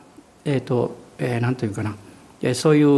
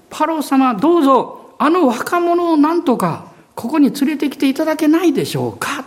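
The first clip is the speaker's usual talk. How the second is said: acted plea in a higher pitch; raised, earnest imploring voice; humble intercession; 8 semitones higher than usual. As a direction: petition a king respectfully on someone else's behalf. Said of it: "へり下った人の取りなしは".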